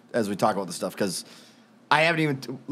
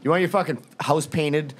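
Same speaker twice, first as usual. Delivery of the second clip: mock ad read. Host doing the sponsor read for the co-host, mock ad voice. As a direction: sell it like a radio spot, half joking. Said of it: "I could just do it right now".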